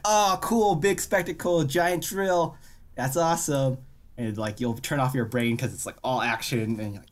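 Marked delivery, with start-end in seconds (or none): 0.1-3.8 mock hype. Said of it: "Where you're just like".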